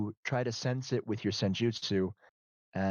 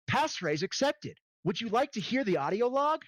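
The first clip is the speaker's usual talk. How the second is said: computer voice; 8 semitones higher than usual. Acted. Computer system voice.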